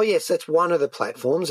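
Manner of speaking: ordinary talk, nothing marked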